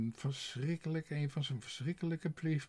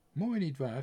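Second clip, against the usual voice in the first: contented cook; 3 semitones higher, 7 dB louder than usual. A narrator's reading. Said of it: "zei de kok tevreden".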